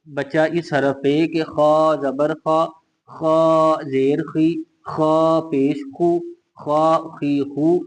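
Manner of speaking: slow, heavy, full-mouthed "खा"; teacher spelling "खा खी खू" with a heavy kha; heavy kha drill. Shown as a demonstration. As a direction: drill "खा जेर खी" slowly with a thick, heavy kha. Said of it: "खा को हम मोटा पढ़ेंगे".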